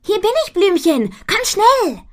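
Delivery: high, loud playful call; cheerful fairy voice. Acted. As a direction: call out, teasing her friend. Ponyfee calls to friend.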